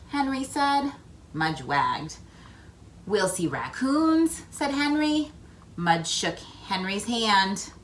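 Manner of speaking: put-on lively read-aloud for young children; story narration. A narrator's reading. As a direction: tell it like a picture book to kids. Reads picture book aloud.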